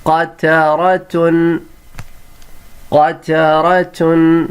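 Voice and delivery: قطرتن stretched out, qa-ta-ra-tun; slow model reading. Shown as a demonstration. Teacher to pupils, drawn-out model word. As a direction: sound out قطرتن slowly. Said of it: "اگلا word ہے".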